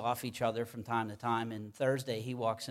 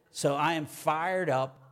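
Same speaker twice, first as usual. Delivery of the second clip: louder, higher, pumped declaration; fired up; 4 semitones higher, 5 dB louder than usual. Real, not acted. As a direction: announce it with real fire. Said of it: "I'm kinda fired up this morning".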